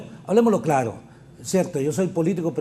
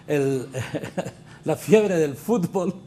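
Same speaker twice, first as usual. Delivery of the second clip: chuckling through the words; real amused chuckle breaking in; laughing; much slower than usual. Real, not acted. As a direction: say it through a suppressed laugh, then apologise. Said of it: "me río".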